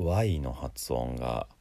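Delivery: ordinary talk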